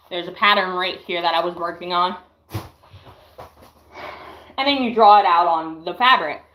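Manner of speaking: slightly winded while talking; out of breath. Real, not acted. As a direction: talk a little short of breath. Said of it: "let me catch my breath".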